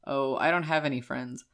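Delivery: deadpan, matter-of-fact admission; stone-faced. Retold or imitated. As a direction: say it completely straight-faced. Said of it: "I just stone-faced".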